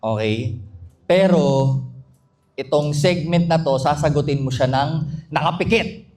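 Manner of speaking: ominous, measured announcement with deliberate pauses; ton inquiétant du meneur de jeu. Real, not acted. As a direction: build suspense, pausing between phrases. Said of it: "Ba't ganyan yung tono mo? Nakakatakot".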